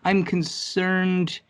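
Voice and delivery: slow whisper, high and breathy; whispered admission. Real, not acted. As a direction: confess it under your breath, slowly. Quiet admission after prompt.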